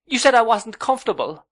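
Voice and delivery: high, loud accusing cry; cried out. A narrator's reading. Young wife cries out her accusation, high and loud. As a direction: hurl the accusation. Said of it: "cried Dora".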